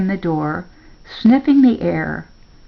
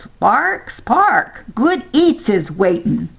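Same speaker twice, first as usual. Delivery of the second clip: yelling; 3 semitones higher, slower than usual. A narrator's reading. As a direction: call him in for supper. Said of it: "Grandma yells".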